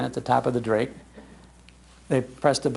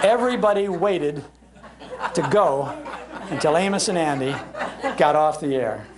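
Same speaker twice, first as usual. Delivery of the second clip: chuckling while telling the punchline; laughing through it. Real, not acted. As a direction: let the laugh break into the words. Laughing at his own punchline.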